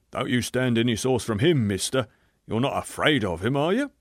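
rough, goading coarse tone; egging on a stranger, coarse; a beefy man goading someone; beefy man's voice. Acted. Big man goads the narrator.

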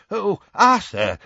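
high, loud, drawn-out desperate cry. A narrator's reading. Timid old wizard arriving panting, desperate. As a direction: call out to him in desperation. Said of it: "he said desperately".

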